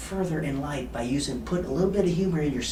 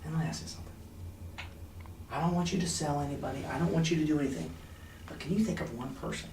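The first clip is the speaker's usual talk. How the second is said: soft coaching voice; 7 dB quieter than usual. Shown as a demonstration. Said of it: "I'm gonna say".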